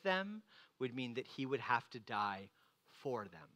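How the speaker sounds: a sincere hush over his death for the bride; hushed and tender. Real, not acted. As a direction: let it fade to almost nothing. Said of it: "tender climax of sermon".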